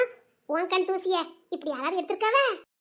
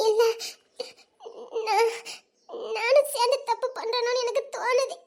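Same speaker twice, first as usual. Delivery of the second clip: tearful confession; 3 semitones higher than usual. Acted. Tearful woman confessing her guilt.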